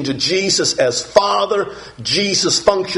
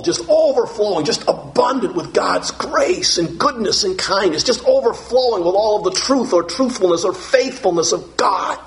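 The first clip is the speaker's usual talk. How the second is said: excited exclaiming; 5 semitones higher than usual. Real, not acted. Preacher extolling fullness of grace.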